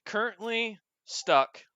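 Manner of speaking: slow, flat robot voice; drawn-out computer reply. Acted. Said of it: "a robotic voice".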